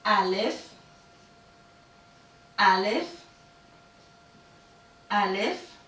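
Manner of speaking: alif repeated slowly, each time with a rising end. Shown as a demonstration. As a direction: drill alif with pauses for the class to repeat. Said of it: "Okay, again".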